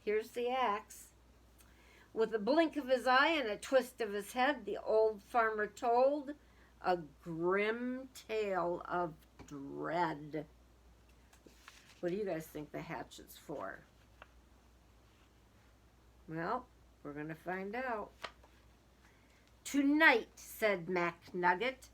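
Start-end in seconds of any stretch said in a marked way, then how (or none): 2.1-10.4 lively storybook reading aloud; sing-song children's story voice. A narrator's reading. Reading a picture book aloud. 19.6-20.3 louder, a hammed-up ominous farmer; the farmer warning the turkeys' fate; farmer's announcement. Farmer announces grim plan.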